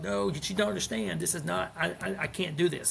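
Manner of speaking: mild mock upset outburst; retold anger. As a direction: push back hard, mildly reliving the fight. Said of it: "I got angry. We had a big fight".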